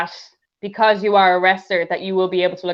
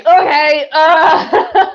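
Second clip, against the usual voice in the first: squeaky high okay, louder; a nervous pitched-up okay to the stranger; high startled okay; 7 semitones higher, 6 dB louder, much slower than usual. Retold or imitated. To the clingy old man, a high nervous okay. Fake cheerful escape from man.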